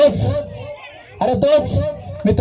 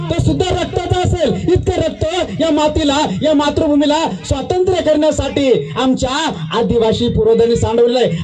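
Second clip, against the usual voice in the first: raised, impassioned speech about the soil soaked in blood; higher-pitched rousing speech to a village crowd; fiery oration; 3 semitones higher than usual. Acted. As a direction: stir the crowd with the sacrifice of the ancestors.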